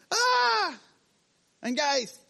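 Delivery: high startled scream of a ghost; panicked cry. Pretend. Frightened disciple shrieks at a ghost in the storm.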